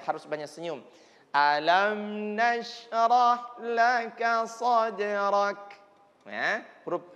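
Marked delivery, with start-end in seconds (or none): 1.3-5.7 slow, smiling recitation with a hiss on the kaf in laka. Shown as a demonstration. Teacher models reciting with a smile, slow. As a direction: read it slowly with a smile. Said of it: "Usahakan membaca Quran harus senyum".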